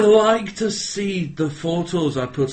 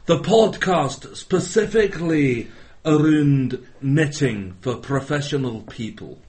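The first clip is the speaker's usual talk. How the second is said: bad Scottish accent. Fake knitting-show host greeting listeners, in a bad Scottish accent. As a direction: put on a poor Scottish accent to welcome listeners. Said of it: "why my Scottish accent's so bad".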